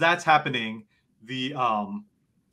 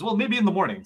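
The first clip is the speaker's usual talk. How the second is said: sleepy creature reply; 7 semitones higher, faster than usual. Acted. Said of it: "He says".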